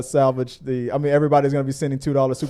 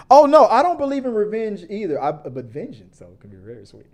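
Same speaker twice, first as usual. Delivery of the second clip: Simpsons character voice; 5 semitones higher, 4 dB louder than usual. Retold or imitated. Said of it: "one of the characters was like".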